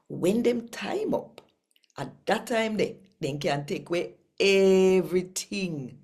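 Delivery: lively Jamaican Bible reading, rising and falling; scripture reading. Acted. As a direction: read the gospel out like telling good news to the congregation.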